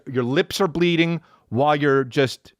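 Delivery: ordinary talk, nothing marked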